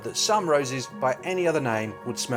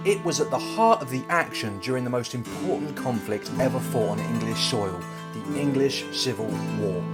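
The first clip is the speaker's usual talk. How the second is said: dramatic history narrator; documentary narration; 3 dB louder than usual. Acted. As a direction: tell the battle like a documentary.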